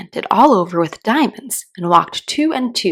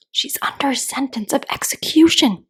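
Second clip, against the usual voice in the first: breathy secret whisper; 7 semitones higher than usual. A narrator's reading. Rabbit whispering the news into Alice's ear. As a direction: whisper it close to her ear. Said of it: "and whispered".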